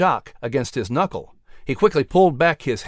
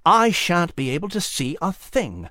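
mouse voice. Acted. Mouse in the rain.

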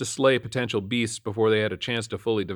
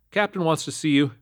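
higher-pitched, singsong notice; sergeant's summons; 7 semitones higher than usual. A narrator's reading. Sergeant summons officer to captain, calling out. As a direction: deliver it as a called-out message. Sergeant glitches, repeats identically.

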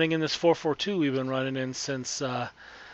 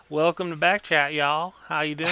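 put-on Okie accent; 4 dB louder than usual. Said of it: "use my Okie accent to start off this".

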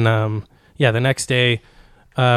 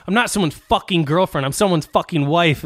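retold indignation, pitched up, punching the swears; mock her losing it, indignant; 4 semitones higher than usual. Retelling friend's outburst at being called a girlfriend, indignant. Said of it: "she fucking lost it".

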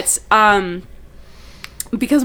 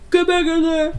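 stern command; 7 semitones higher than usual. Retold or imitated. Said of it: "they're like".

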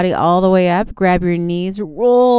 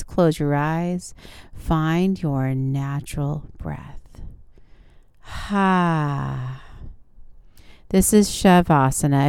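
guided relaxation. Acted.

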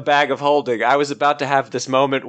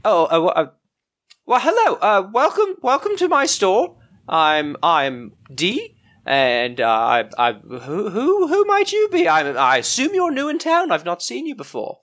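higher, flustered shopkeeper woman; Dee the shopkeeper; 7 semitones higher than usual. Acted. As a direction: play the startled village shopkeeper.

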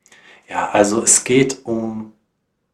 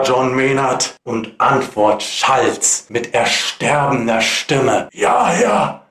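dramatic ballad reading, rising and falling; poem recitation. Acted.

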